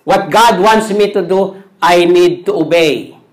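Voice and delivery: normal talking voice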